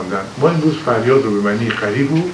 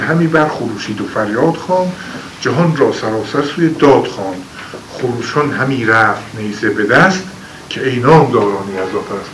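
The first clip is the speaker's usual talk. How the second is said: poem recitation. Acted. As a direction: recite it like old epic poetry. Recites Shahnameh verse. (خوانش حماسی شعر)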